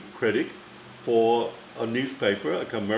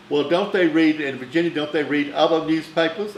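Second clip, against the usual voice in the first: a higher, louder scornful question; indignant Bette Davis; 5 semitones higher, 5 dB louder than usual. Retold or imitated. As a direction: mimic the star's haughty scorn.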